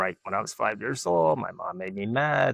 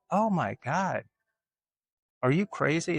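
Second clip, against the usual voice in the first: higher, disbelieving exclamation; incredulous outburst; 7 semitones higher than usual. Retold or imitated. To mom who denies it, high and disbelieving. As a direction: toss it back in disbelief.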